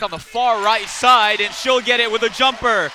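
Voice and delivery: excited play call. Real, not acted. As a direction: call the made jumper with punch. Live call of a made basket.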